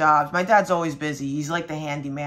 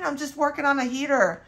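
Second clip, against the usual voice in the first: laughing while talking; 7 semitones higher, 5 dB louder than usual. Real, not acted. Laughing while quoting dad.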